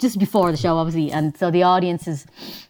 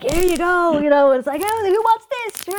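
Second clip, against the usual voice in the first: a hint of a jolly host, higher; lightly voiced compere; 11 semitones higher than usual. Warm-up man flinging prizes to the crowd, mock showman.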